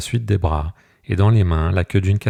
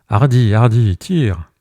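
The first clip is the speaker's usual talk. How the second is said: loud, higher urging shout; shouting encouragement; 3 semitones higher, 7 dB louder, slower than usual. A narrator's reading. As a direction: yell at him to pull harder. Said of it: "criait sénateur".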